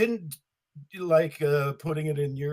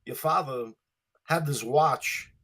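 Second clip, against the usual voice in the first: Walken monologue. Retold or imitated. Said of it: "No, I'm not doing Christopher Walken".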